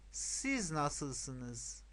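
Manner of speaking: slow teacher's model phrase; repeat-after-me model. Shown as a demonstration. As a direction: say it slowly for learners to copy. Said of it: "پشت سر من تکرار کنید".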